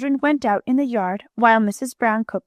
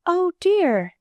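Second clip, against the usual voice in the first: higher, sudden gasp of dismay; a startled aunt's gasp, higher; gasped alarm; 8 semitones higher than usual. A narrator's reading. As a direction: catch your breath in sudden alarm. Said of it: "she gasped".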